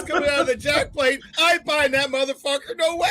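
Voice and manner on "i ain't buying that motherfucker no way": ranting refusal. Real, not acted. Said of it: "That was a good rant".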